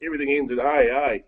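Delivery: light mock Toowoomba Aussie accent with an "eh?" on every line. Guest greets the radio hosts from Toowoomba in a jokey light Toowoomba accent. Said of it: "I'll put on a bit of a, a Toowoomba accent for you".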